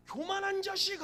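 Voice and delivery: high, loud scornful telling-off; hammed-up indignation; arrogant rebuke. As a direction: crush the upstart with contempt. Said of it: "더 큰 교만으로 눌러".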